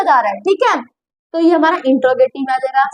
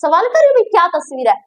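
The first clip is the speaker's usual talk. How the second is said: admiring wow; 2 semitones higher than usual. Shown as a demonstration. Teacher showing the feeling of admiring a picture, excited. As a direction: gush over a beautiful picture. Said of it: "मेरी feeling देखो".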